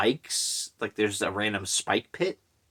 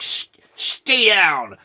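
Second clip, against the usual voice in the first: slow high-pitched drawn-out Batman shout; 7 semitones higher, 6 dB louder, much slower than usual. Retold or imitated. Retelling a movie fight to listeners, mock Batman voice. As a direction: drag it out like a spoof Batman. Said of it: "making him sound like Batman".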